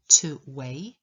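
"weigh" ending on an open vowel, no T; no final T. Shown as a demonstration. Teacher showing the verb "weigh" without a final T. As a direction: say "weigh" with the T left off. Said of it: "nie wymawiamy tego T na końcu".

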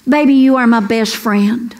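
low, gentle, mock-romantic husband voice; husband's tender line. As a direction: lightly play the sweet husband leaning in. He goes.

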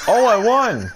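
squeaky imitation of a win cry; high mock cheer. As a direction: mimic his high cheer. Mocks friend's win cry.

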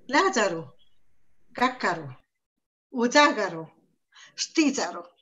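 Lázaro, cácaro, udágaro, stízaro each strong at the start; stress on first syllables. Shown as a demonstration. Listing esdrújulas for colleagues, front-stressed. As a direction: lean on the opening syllable of every word. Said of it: "Esa suena fuerte las primeras sílabas".

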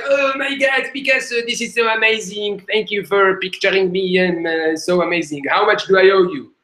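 high, excited gushing woman; thrilled woman. Retold or imitated. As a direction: rave over the drawing like a starstruck fan. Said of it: "She's like".

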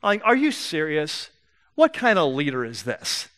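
mild exasperated disbelief; irritated listener. Acted. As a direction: play a listener losing patience, without raising the voice. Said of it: "I'm getting irritated".

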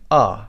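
"آ" as a short, isolated vowel; the short "آ" sound, modelled for learners; short vowel demo. Shown as a demonstration. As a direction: sound out "آ" briefly, not drawn out. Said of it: "صدای آ کوتاه".

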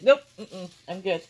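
loud, teasing voice for the pet; loud playful refusal. Retold or imitated. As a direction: belt out a cheeky no. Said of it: "She's like".

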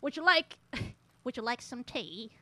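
mock British accent. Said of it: "keep up this British accent".

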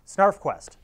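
light up at a favourite comic's name; excited. Real, not acted. Host spotting his favourite comic, excited outburst.

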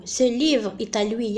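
slow, deliberate dictation pace; slow example. Shown as a demonstration. Teacher rereads the second example to students, slowly. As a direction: spell the sentence out with your voice. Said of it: "المثال الذي رأيناه،".

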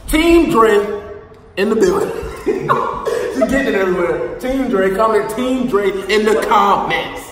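loud hype for the team; excited cheering. Real, not acted. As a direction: hype it up, laughing.

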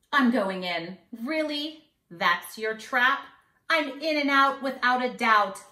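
put-on sing-song rhyme for kids; mischievous leprechaun. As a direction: read it like a cheeky little leprechaun bragging. Leprechaun mocks the trap.

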